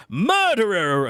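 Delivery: loud, slow accusing cry; accusing shout. Acted. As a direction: hurl the word at them. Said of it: "accuses one".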